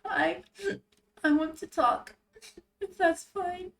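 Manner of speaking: high, sobbing voice; tearful. Acted. Rinku asking Yale to keep talking, tearful. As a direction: push halting words out through tears. Crying character answers comforter.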